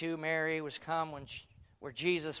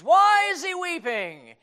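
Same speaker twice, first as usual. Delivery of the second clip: puzzled question; 10 semitones higher, 10 dB louder than usual. Retold or imitated. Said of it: "it's been asked for centuries".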